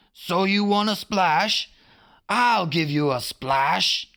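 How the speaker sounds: high, menacing pirate captain; a villain's threat, slowing at the end; Hook menacing. A narrator's reading. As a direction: taunt the crew with menace. Hook voiced in story.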